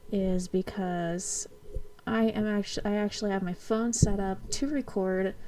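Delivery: muffled behind a mask; talking through a face mask. Real, not acted. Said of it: "I'm wearing a mask right now".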